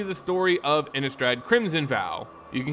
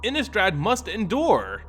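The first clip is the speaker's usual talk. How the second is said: rising urgency; 4 semitones higher than usual. Acted. Young Sorin pleads his case.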